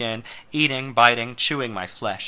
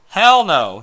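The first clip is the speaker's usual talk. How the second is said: laughing; 8 semitones higher, 11 dB louder than usual. Acted. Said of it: "he laughed".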